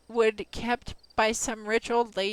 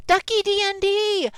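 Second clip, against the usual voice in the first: loud, high hype call of a username; shout-out; 9 semitones higher, 6 dB louder than usual. Real, not acted. Streamer to new follower Ducky, loud hype shout-out. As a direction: announce the name like a ring announcer.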